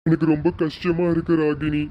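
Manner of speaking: a father close to crying over his daughter leaving; tearful father. Acted. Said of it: "அப்பா அழுகாதீங்கப்பா". (அழுகையை அடக்கும் அப்பாவின் குரல்)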